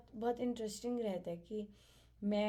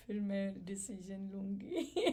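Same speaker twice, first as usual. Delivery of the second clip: said through a laugh. Retold or imitated. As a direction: let the laugh spill into it. Quoting her reply, laughing. (हँसते हुए)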